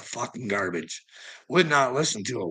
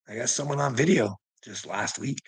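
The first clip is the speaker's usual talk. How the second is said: ordinary delivery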